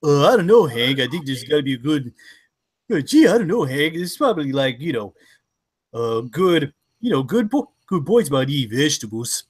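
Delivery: low, mumbling sad-sack neighbor; Bill voice. Acted. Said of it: "Shut up, Bill".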